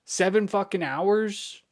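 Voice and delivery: loud disbelieving outburst; outraged. Real, not acted. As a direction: hammer each word in disbelief. Venting disbelief at wait.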